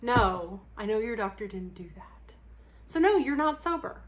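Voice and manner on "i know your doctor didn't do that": unvoiced whispered aside. Real, not acted. Whispering an aside to viewers about the doctor, hushed.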